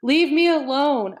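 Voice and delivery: high, loud and slow scream; screaming through tears. A narrator's reading. Bella screaming at her father to leave her alone, slow and loud. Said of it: "I screamed at him through my tears".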